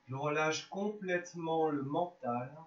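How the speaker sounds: measured yoga nidra guidance with long pauses; unhurried, spaced-out relaxation voice; guided relaxation. Real, not acted. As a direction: guide them gently into rest, phrase by phrase.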